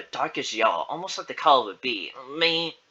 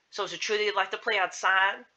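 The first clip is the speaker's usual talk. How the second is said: higher-pitched questioning voice; interviewing client; 6 semitones higher than usual. Acted. Client opening the interview, inquiring. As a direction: ask the child in a lifted voice.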